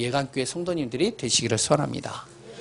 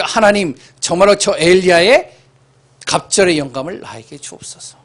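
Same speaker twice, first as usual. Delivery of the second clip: fervent prayer; 4 semitones higher, 7 dB louder than usual. Acted. Quoted prayer of Elisha.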